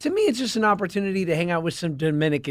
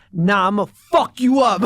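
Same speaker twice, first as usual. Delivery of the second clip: mock threat; 4 dB louder than usual. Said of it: "went from namaste to".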